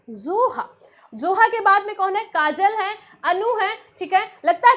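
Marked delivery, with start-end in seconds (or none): 0.1-0.7 said lovingly. Shown as a demonstration. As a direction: say जोहा gently, like a pet name. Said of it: "ऐसे ही बड़े प्यार से".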